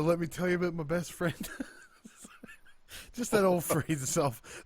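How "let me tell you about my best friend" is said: quoted through a laugh; laughing quote. Retold or imitated. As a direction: say it while laughing. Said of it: "did you see Cole doing the".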